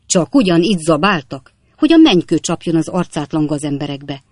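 loud, indignant cursing; angry outburst. Acted. Captain curses the trespassers.

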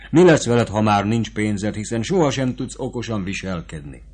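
lightly voiced sutler woman, urgent and motherly; sutler woman advising. Sutler woman urges young Fabrizio to flee, lightly urgent voice. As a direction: press the advice on him, fast and eager.

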